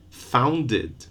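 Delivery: founded as two syllables, FOUN-did; founded with a clear vowel before the last d; extra syllable. Shown as a demonstration. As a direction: sound the id ending in founded. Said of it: "with an extra syllable".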